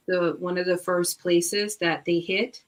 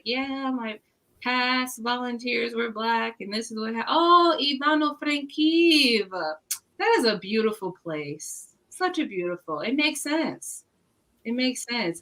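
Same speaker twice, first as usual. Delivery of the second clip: gentle host mom; 5 semitones higher than usual. Retold or imitated. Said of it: "she was just like".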